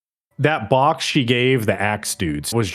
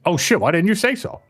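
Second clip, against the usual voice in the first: mock realization; 5 semitones higher, faster than usual. Voicing heroes' relieved reply.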